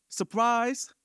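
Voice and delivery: high-pitched, playful shout; yelled surprise. Acted. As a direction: leap up in pitch as if jumping out on someone. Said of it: "jump on his back to yell".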